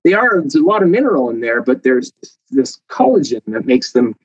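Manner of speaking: rising eagerly to a squeaky high on the last words; eager explaining. Retold or imitated. Explaining to people that bones bend, rising to high excited pitch. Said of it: "I said".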